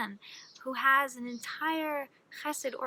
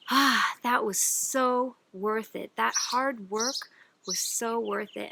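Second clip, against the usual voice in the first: savoring; slower than usual. Acted. Man repeats while eating.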